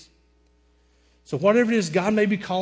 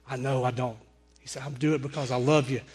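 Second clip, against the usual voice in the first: lower, quieter retold reply; tender reassurance; 4 semitones lower, 4 dB quieter than usual. Reggie insisting on buying his friend's jeans, tender reassurance. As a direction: drop the pitch and say it gently.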